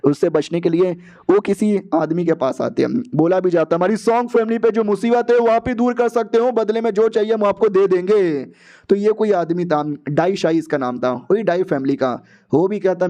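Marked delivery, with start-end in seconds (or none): 3.8-8.4 higher-pitched acted appeal; pleading request. Family asking a man to remove their trouble, pleading. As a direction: plead in one high, sustained run.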